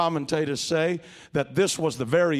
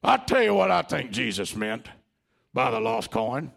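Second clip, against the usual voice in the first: blustering Peter; 3 semitones higher than usual. Retold or imitated. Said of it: "big burly chest out and saying".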